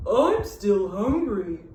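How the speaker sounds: slow, drawn-out cow voice; mooing cow. A narrator's reading. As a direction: moo it lazily. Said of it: "mooed the cow".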